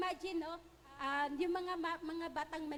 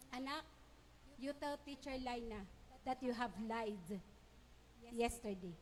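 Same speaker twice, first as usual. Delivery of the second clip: parent scolding; 5 semitones lower, 6 dB quieter than usual. Retold or imitated. Stern parent orders child.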